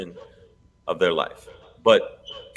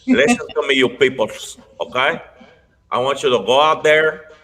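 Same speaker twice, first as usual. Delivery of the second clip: put-on Puerto Rican accent; 3 semitones higher than usual. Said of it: "a horrible impression of a Puerto Rican".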